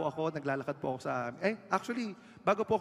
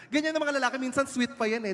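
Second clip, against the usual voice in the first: high teasing; 8 semitones higher, 4 dB louder than usual. Acted. Teasing about men.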